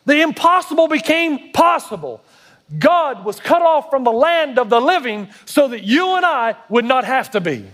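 high, measured preacher delivery; emphatic pulpit proclamation; fervent preaching. Real, not acted. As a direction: proclaim each paradox with weight. Preaches at rising intensity.

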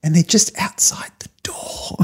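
whispering on the phone. Real, not acted. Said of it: "Why are you whispering".

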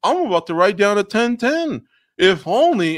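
high, anxious judge muttering over a close round; mock fretting judge. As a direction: play a nervous scorer hoping for something to happen. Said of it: "the judges are sitting there going".

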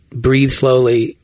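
slow, drawn-out hint of a South African accent; South African guide. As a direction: coax it very slowly like the South African meditation guide. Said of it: "He says".

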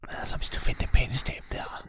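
whispering. Acted. Burglar pointing out the safe, whispered. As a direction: keep it to a whisper in the dark room. Sneaking past sleeping mayor.

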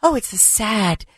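soft, sighing mock sorrow; mock solemn pundit. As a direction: parody the somber anchors. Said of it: "people found it sad".

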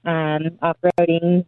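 echoey, hollow phone sound; like talking inside a barrel. Real, not acted. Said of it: "you sound like you're in a barrel".

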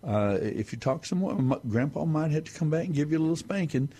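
a hint of a stern grandpa; lightly voiced mock warning; grandpa scolding. Grandpa warns the boy of a spanking, lightly stern. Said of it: "and he says".

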